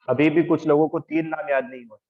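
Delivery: normal talking voice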